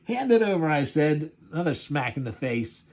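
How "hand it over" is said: 1 mock robber threat. Robber threatening the cab driver.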